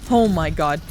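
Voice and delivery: loud startled oh my god; surprised exclaim. Real, not acted. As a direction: blurt it out in shock. Reacting to teammate surviving.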